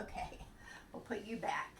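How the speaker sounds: hushed whisper; soft whispered aside. Real, not acted. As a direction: whisper it as the puppet goes away. Aside while putting puppet away.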